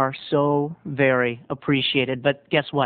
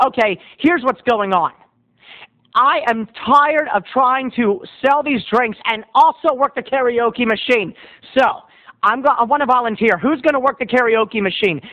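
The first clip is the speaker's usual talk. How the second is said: mildly exasperated announcement, raised pitch; fed-up bartender; 6 semitones higher than usual. Acted. Bartender asks the bar for a volunteer, exasperated. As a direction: lay down the law, a touch fed up.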